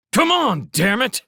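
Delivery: high, loud, forceful urging; angry snarl. A narrator's reading. Felix drags the scouts into cover, snarling loudly. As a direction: snarl the order in urgency. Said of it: "Felix snarled".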